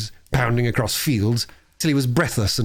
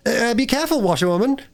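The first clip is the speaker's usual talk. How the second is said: higher, warning gentleman; warning call; 12 semitones higher than usual. A narrator's reading. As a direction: call out a caution. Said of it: "call out warningly".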